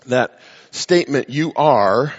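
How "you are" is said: "are" pushed hard, pitch rising on "are"; emphatic you are. Shown as a demonstration. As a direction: lean forcefully into "You are". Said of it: "is very emphatic and forceful in the Greek".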